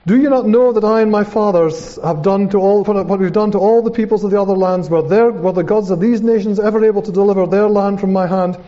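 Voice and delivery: forceful rhetorical questioning; intimidating enemy taunt. Acted. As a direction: read it as a conqueror demoralising his foes. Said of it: "trying to weaken the, the, the, the hearts".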